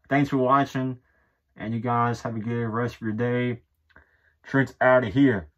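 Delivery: speaking through cloth; muffled through shirt. Real, not acted. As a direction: hand covering mouth. Seen 5: Gray shirt pulled over nose and mouth, hand pressing it throughout.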